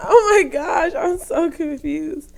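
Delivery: slow, drawn-out baffled laugh; laughing bewilderment. Real, not acted. Host lost in the talk about a rapper, laughing bewilderment. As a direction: wail it slowly in amused confusion.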